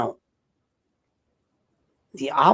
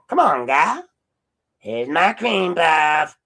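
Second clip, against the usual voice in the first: higher, louder, slow shouted mock line; mock yell; 5 semitones higher, 5 dB louder, slower than usual. Parodying the sheriff's cream puff moment with a higher, louder, slow shout. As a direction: belt out the silly line as a parody.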